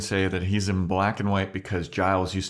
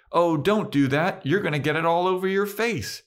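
fussy Giles; 10 semitones higher than usual. Retold or imitated. Giles quoted warning Buffy.

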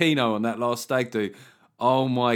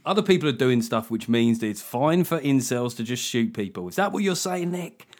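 mildly outraged tabloid paraphrase; lightly mock a tabloid's accusing tone; tabloid spin; 3 dB louder than usual. Podcast host twists his guest's point as tabloids would, mock-accusing. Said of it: "this is how the tabloids would run it".

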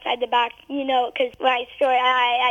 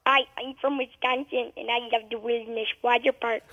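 lightly done Wisconsin accent; a hint of Wisconsin accent; 3 dB quieter than usual. Shown as a demonstration. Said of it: "say it back to me in a Wisconsin accent".

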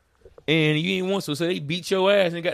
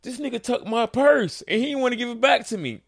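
higher, imitating a woman calming him; wife explaining; 9 semitones higher than usual. Wife tells the storyteller to relax, higher imitation. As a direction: play her trying to settle him down. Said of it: "She's like".

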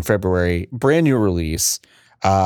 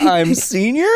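put-on old person voice; 12 semitones higher, slower than usual. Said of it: "old person voice".

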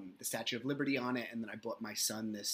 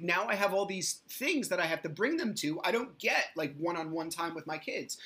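retelling frustration at the new times, voice pitched way up; exasperated high rant; 5 semitones higher than usual. Retold or imitated. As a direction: sound fed up with the schedule. Venting about visitation schedule.

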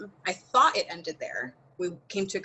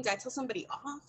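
quick, laughing question, pitched up; laughing disbelief; 4 semitones higher, 6 dB quieter, faster than usual. Real, not acted. Retelling the aggressive feedback, she laughs in disbelief. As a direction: laugh through it, still stunned.

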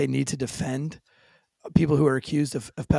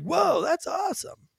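mock impressed whoa; 13 semitones higher, slower than usual.

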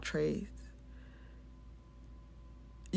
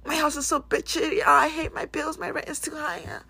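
whiny complainer; 6 semitones higher, 4 dB louder than usual. Retold or imitated. Mocking complainer.

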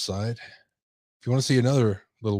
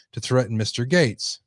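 emphatic news-story read; projected article narration. Acted. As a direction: read out the report like a newscaster.

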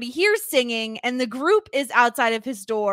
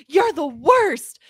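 mock outburst; 3 semitones higher, 7 dB louder, slower than usual. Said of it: "Mister Rad loses his mind".

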